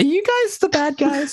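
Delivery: very high, mock-pleading whining squeak.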